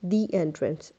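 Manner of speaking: THE said as "thee" before entrance; vowel-sound article. Shown as a demonstration. Teacher explains the exception, THE as "thee". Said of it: "अगर entrance खाली होता".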